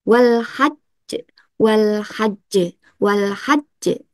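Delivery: "wal hajj" with the j held, then bounced off; held doubled j. Shown as a demonstration. Teacher demonstrating Quran recitation, doubled j held then bounced. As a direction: hold the jj in "hajj" briefly before releasing it. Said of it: "kalau ada tasdidnya".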